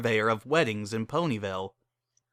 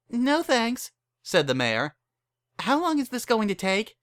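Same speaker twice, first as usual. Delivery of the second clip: much higher, fluttery and alarmed; a startled innocent fretting; flustered young mare; 10 semitones higher than usual. Acted. The mare frets to Barry about looking pregnant, higher and flustered.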